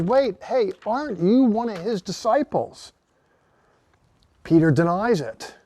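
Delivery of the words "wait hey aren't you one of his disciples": put-on raised, pointed challenge from a servant girl; a lightly voiced accuser; accusing bystander. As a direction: call him out: aren't you one of them.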